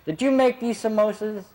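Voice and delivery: retold questioning. Guru confronting his cook about samosas, questioning.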